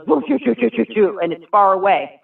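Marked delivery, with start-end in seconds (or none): 0.1-1.2 whooshing sound. Retold or imitated. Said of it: "it goes".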